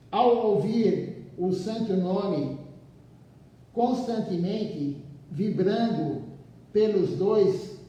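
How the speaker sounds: slow, measured reading with pauses between phrases; leitura de livro em voz alta. Acted. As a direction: read the text out deliberately, phrase by phrase. Returns to reading the book. (leitura pausada, frase por frase)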